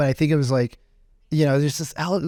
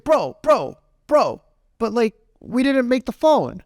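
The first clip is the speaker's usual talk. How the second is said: higher pleading voice of the friend; raised bro appeal; 8 semitones higher, slower than usual. Retold or imitated. Store owner reasoning with the angry customer, raised voice. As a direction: urge him, it's not our fault. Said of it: "he's like".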